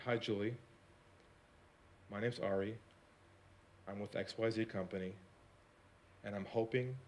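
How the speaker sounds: a calm, unhurried hello to the gatekeeper; soft phone greeting. Shown as a demonstration. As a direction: ease into the call gently, almost hushed. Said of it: "And I said this".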